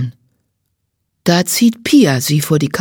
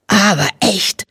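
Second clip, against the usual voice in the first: annoyed; 2 semitones higher than usual. A narrator's reading. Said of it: "Sie ist stinksauer".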